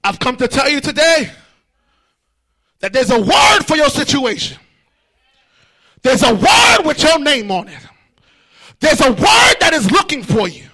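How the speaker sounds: rousing preacher's cadence; preaching at full force. Acted. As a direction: drive each line home to the church. Preaches to the congregation.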